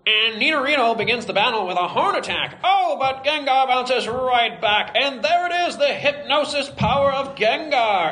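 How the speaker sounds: excited vintage sportscaster voice; 1940s announcer. Acted. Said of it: "do the announcer as nineteen forties announcer guy".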